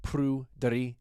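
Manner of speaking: Prudery said slowly and carefully the Welsh way, like Pryderi; Welsh pronunciation. Shown as a demonstration. Host teaching listeners the Welsh name, slow and careful. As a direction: give Prudery its careful Welsh sound, slowed down. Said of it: "It's pronounced".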